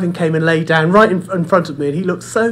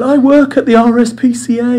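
higher, imitated drunk bragging; tipsy woman boasting; 6 semitones higher, 3 dB louder than usual. Drunk woman at the pub boasts to the owner, imitated higher. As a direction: play the tipsy woman showing off her job. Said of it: "she was obviously worse for wear".

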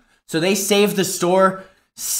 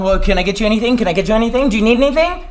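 mocking clerk; 3 semitones higher, much faster than usual. Imitating pushy sales associates.

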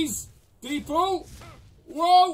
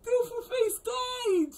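laughing; 12 semitones higher, slower than usual. Real, not acted. Laughing at death in game.

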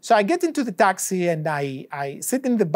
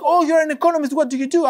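mock-surprised Uber driver, much higher pitch; 9 semitones higher, 3 dB louder, faster than usual. Uber driver reacting to an economist passenger, pitched-up surprise. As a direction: play the driver, impressed and curious.

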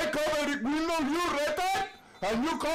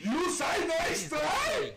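slow angry shout; 4 semitones higher, slower than usual. Real, not acted. Player yelling at teammate over "nice try", slow angry shout. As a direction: stretch every word out in disbelief. Repeated louder in anger.

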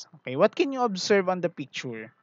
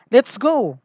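higher and louder, firm order; commanding truck; 6 semitones higher, 8 dB louder than usual. Acted. Big truck orders the toys to leave, firm and loud. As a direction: bark the command like the boss truck. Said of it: "command the big truck".

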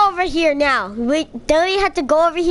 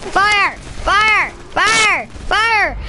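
calling fire; 3 semitones higher, much slower than usual. Acted. Calling out in the game.

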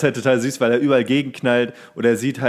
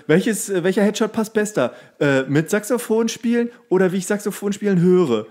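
higher, naive questioning tone; dopey actor voice; 8 semitones higher than usual. Retold or imitated. Podcaster imitates the dopey secretary asking about headshots. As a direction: ask like a clueless actor. Imitating Chris Hemsworth character.

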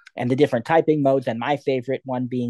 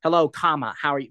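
spoken punctuation. Shown as a demonstration. Teacher showing how to dictate a comma after hello. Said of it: "put a comma after hello".

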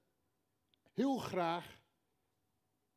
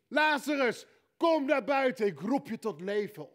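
loud, high commanding call; Jesus calling Lazarus from the tomb; calling by name; 5 semitones higher, 7 dB louder than usual. Acted. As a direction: summon him by name out of the grave. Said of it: "hij roept specifiek".

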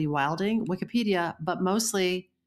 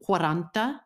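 put-on Italian accent. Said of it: "please enjoy my bullshit Italian accent".

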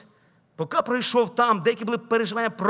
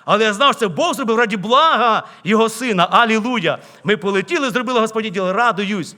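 louder, jubilant preaching with joy; preaching at full force; 7 dB louder than usual. Acted. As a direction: proclaim God's glory to the church. (проповідь на повну силу, гучно й радісно)

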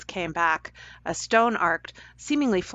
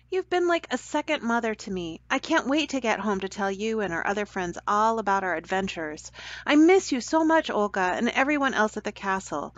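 put-on higher, fond boy's voice, rising on miss you; Jared tells Olga he misses her, higher and fond; affectionate Jared; 4 semitones higher than usual. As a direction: reassure a second mother.

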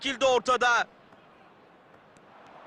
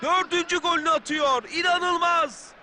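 excited shout; 2 semitones higher than usual. Real, not acted. Fourth goal called.

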